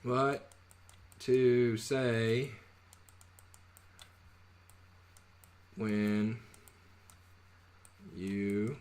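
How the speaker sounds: each word of the title spaced out by long pauses; slow title read. Real, not acted. Announcing a book title, slow and deliberate. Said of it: "is long title".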